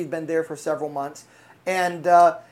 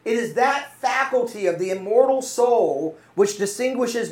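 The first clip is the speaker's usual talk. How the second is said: raised, emphatic sermon delivery; emphatic preaching; 3 semitones higher than usual. Real, not acted. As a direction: drive the point home to the congregation.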